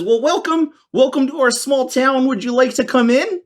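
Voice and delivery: high, sweet small-town lady voice; lightly laughing hostess greeting strangers; small-town woman. Acted.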